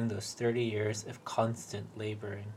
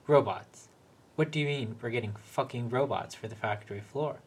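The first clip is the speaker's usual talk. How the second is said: angry. Acted. Peter's outburst at manager.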